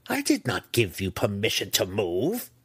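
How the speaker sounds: restrained screamed reprimand; screaming. Acted. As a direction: scold like a screaming matriarch, held back. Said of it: "Malice screamed behind him".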